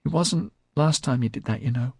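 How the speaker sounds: put-on high, light girlish voice; high-pitched, squeaky. A narrator's reading. Tiger Pansy tells Melanie about J C, high-pitched.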